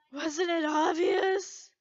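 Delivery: slow, dry sarcastic question. Acted. Levy mocks Lucy for asking, slow and sarcastic. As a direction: roll your eyes at the obvious. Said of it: "she stated sarcastically".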